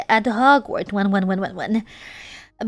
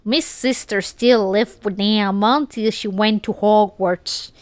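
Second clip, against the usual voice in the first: Southern accent. Shown as a demonstration. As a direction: keep the hammed-up Southern accent going through the story. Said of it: "read it with a American Southern accent".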